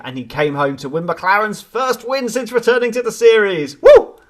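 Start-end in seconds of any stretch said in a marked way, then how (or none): 3.8-4.2 loud, high whoop of joy; cheering. Real, not acted. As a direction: cheer your team home, loud. Cheering the McLaren win.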